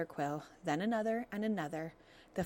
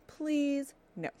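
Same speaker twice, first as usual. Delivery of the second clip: pleading fox; 8 semitones higher, 4 dB louder than usual. Acted. Fox begs, robot refuses.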